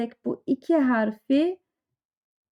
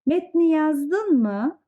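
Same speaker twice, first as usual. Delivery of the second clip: demanding; 5 semitones higher, slower than usual. Acted. Oya holding Ali to account, demanding and pointed. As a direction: call him to account. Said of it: "Bir de hesap soruyor bakın".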